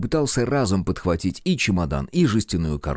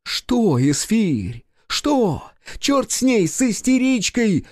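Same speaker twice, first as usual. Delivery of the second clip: angry interruption; 13 semitones higher, much slower than usual. A narrator's reading. Director cutting off his assistant, high furious yell. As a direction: snap over him in a rage. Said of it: "перебил режиссёр".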